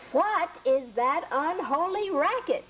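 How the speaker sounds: put-on an old woman grumbling at the noise. Old woman hears dogs.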